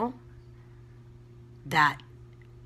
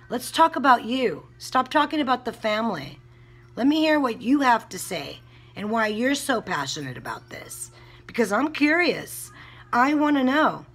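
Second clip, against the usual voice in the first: raised, louder and higher, challenging; confronting YouTubers who cover the case; pressing demand; 5 semitones higher, 4 dB louder than usual. Real, not acted. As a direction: push them hard to explain themselves.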